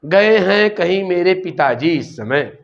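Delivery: slow, deliberately scrambled word order; slow jumbled answer. Shown as a demonstration. Teacher showing students a wrong answer, slow jumbled delivery. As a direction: say it slowly as an odd answer. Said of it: "तो आप हमसे ये कहें".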